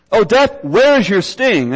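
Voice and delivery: mild mocking challenge to death; a gentle, understated taunt. Shown as a demonstration. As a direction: toss the question at death like a light jeer. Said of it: "Paul here is basically taunting death".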